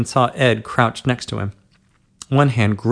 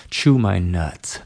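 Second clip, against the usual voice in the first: slow command; 4 semitones lower, much slower than usual. Acted. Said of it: "the command came".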